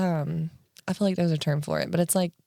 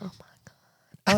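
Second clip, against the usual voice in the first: whispered oh my God; slower than usual. Real, not acted. Reaction to South Park plot.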